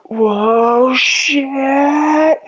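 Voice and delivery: high, stretched-out startled yelp; squeaky shocked falling cry; startled whoa. Retold or imitated. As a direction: gasp it out as the floor drops away. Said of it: "So I'm like".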